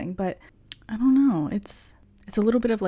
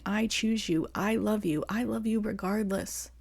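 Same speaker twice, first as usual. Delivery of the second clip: tender self-talk; 5 dB quieter than usual. Pretend. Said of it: "looking at myself in the mirror and saying".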